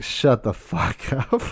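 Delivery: slow, breaking into laughter; can't get it out for laughing; laughing disbelief. Retold or imitated. Reacting to friend's dead cat story, laughing disbelief.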